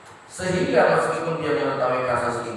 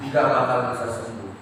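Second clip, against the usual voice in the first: normal talking voice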